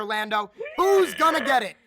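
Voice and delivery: loud call across the desk. Real, not acted. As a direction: call out to your partner. Calls out to co-caster.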